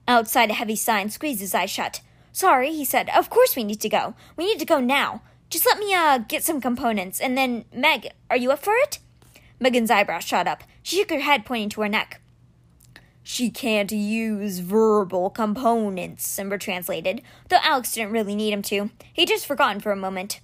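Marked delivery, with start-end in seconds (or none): 2.3-9.0 decide quickly, then ask; resolved boy Alex. Acted. Boy apologizing and asking Megan to join, hurried. 13.2-16.3 very slow, grave creature voice; measured like a great stone beast; stone cat Simber. Acted. Stone guardian bringing news to Alex, slow and grave.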